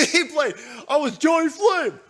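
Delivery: lightly mocking, smug quote of the actor; a hint of pompous actor voice. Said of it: "he played Johnny Flame".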